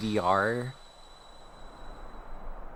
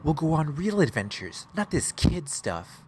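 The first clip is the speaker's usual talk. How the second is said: lightly voiced eager young anime hero; a hint of an overacted anime dub; young anime character voice; 4 semitones higher than usual. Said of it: "my best young anime character voice".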